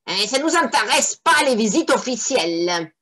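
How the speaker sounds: lightly voiced grumpy devil; first devil. First devil dismisses the inspector, mildly grumpy. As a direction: brush it off like a bored imp. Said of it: "dit la première".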